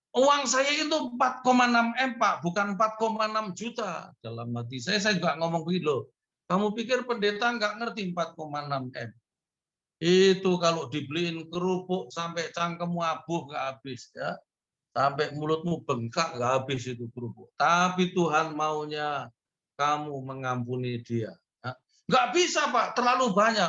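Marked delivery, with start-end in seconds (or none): 0.1-4.1 raised, insistent voice of the man; imitating the congregant. Congregant correcting the pastor. 22.1-23.7 high, loud protesting voice; imitating the refusal. Congregant refusing to forgive.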